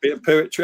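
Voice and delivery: jokey local "poo-etry" for "poetry". Shown as a demonstration. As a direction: stretch the start of "poetry" into "poo". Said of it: "I'm putting the poo into poetry".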